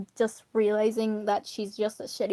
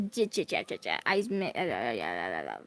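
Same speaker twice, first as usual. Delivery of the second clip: stuttering; 13 semitones lower, 8 dB quieter, faster than usual. Real, not acted. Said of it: "So sorry for stuttering".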